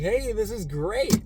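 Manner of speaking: high, slow, cheerful crowd voice; high drawn-out villager cheer; mock villagers cheering. Villagers cheer the new horse.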